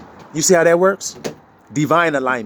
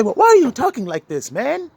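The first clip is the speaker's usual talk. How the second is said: higher-pitched mock complaint; put-on higher voice of a baffled objector; mimicked objector; 8 semitones higher than usual. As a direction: imitate someone protesting, voice pitched up.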